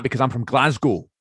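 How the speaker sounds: lightly put-on harsh Glasgow accent; a touch of hard Glaswegian. Shown as a demonstration. Showing what casting expects, harsh Glasgow accent. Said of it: "is meant to be really harsh".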